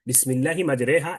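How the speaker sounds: মাজরেহা said with e sound, not মাজরাহা; imala demo. Shown as a demonstration. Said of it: "এই মাজরাহাকে মাজরেহা পড়েন". (মাজরেহা ইমালা করে উচ্চারণ)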